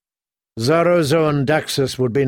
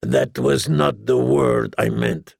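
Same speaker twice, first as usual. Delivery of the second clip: mock sob; 3 semitones lower, slower than usual. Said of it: "Zaro sobbed".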